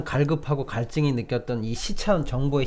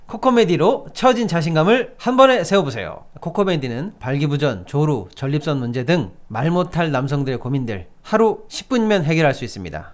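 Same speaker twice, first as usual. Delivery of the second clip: upbeat sales pitch read; hard sell ad. Acted. Reads a live ad.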